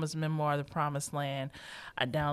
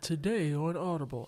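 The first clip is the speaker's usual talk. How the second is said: monotone audiobook voice. Retold or imitated. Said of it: "Because it's not a monotone".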